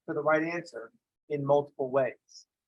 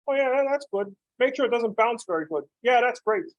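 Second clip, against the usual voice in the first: high, mock-pleased voice, pitched up; sarcastic approval; 7 semitones higher than usual. Football inventors praise their bad ball, mock-cheerful high voice. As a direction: ham up the fake enthusiasm.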